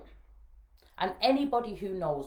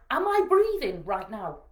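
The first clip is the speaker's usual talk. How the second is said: loud, slow, raised-pitch question; acted pointed challenge; 5 semitones higher, 10 dB louder, slower than usual. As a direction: drive the point home word by word. Rallying crying daughter with questions.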